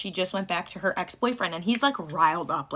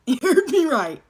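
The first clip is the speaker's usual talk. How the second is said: laughing; 8 semitones higher, 7 dB louder than usual. Real, not acted. Laughing at murderer reveal.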